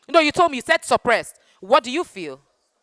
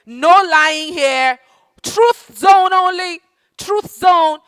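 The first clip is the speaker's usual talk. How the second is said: firm call-out; 4 semitones higher, 6 dB louder, much slower than usual. Real, not acted. Teacher declares truth zone.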